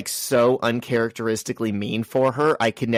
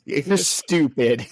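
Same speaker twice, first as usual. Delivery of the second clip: mock sweet condescension; 2 semitones higher, slower than usual.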